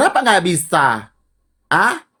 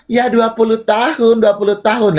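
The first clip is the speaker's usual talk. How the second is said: higher-pitched mocking quote; teasing imitation, pitched up; mimicking another person; 5 semitones higher than usual. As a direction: parrot their words in a raised voice. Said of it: "panda dari Cina bilang".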